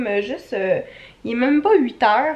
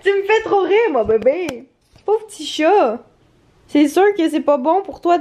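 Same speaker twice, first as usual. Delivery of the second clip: higher, louder cooing at a pet; 4 semitones higher, 4 dB louder than usual. Real, not acted. Owner cooing to her tipsy dog, higher baby talk.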